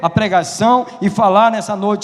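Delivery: high, loud, urgent pulpit cry; preaching at full force. Real, not acted. Preacher calling church to close eyes and pray, fervent shouting. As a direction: preach it loud, pleading with the congregation.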